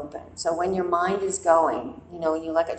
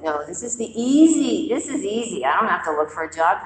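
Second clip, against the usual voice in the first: louder, eager self-talk that rationalizes; craving voice; 6 dB louder, faster than usual. Retold or imitated. The craving for a job talking her into it, eager. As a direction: sell yourself the easy way out, pushing. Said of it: "But my craving to have a job said".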